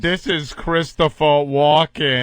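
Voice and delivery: mock Walken. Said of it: "I got no voice inflection".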